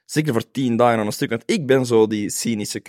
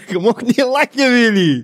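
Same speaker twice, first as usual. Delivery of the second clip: laughing; 9 semitones higher, 6 dB louder than usual. Real, not acted. Laughing teasing friend.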